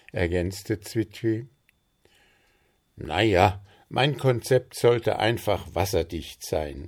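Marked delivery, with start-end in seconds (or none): 3.0-6.9 defensive. Acted. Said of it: "verteidigte sich Puh".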